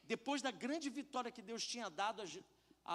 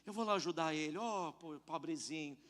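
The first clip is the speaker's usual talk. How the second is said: mock pity; 4 semitones lower than usual. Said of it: "como se Deus olhasse e falasse".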